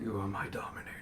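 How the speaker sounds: hushed eerie horse voice; whispered creature voice. Acted. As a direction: breathe it like a summoned steed. Nightmare horse speaks telepathically.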